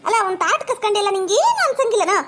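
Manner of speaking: high-pitched reproach; indignant scolding. Acted. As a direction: scold her, voice climbing high in outrage. Scolding daughter-in-law during quarrel.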